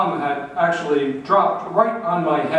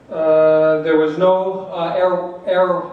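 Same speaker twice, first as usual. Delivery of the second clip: out of breath; 2 semitones higher, 4 dB louder, slower than usual. Real, not acted. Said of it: "I'm out of breath".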